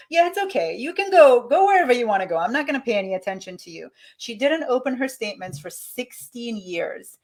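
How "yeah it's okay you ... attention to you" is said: put-on higher, louder playful Jamaican accent that speeds up at the end; lightly hammed Jamaican voice telling money to go. A woman waving her money off, in a playful Jamaican accent. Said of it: "there was my Jamaican accent".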